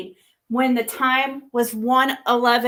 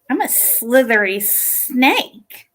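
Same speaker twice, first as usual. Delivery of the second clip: imitating snake voice; 4 dB louder, slower than usual. Shown as a demonstration. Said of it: "Okay, one more".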